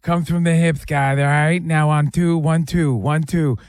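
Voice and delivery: lisping boxer giving a punching lesson; Mike Tyson. Acted. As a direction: do a lisped boxing-coach impression. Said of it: "should we hire Mike Tyson".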